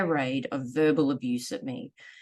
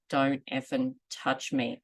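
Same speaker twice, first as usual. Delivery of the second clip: slow and firm; slower than usual. Retold or imitated. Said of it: "I said it slow, I said it loud".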